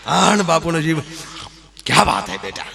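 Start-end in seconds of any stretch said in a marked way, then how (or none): 1.9-2.7 whispered delight. Retold or imitated. Bapu talks to himself in the kitchen.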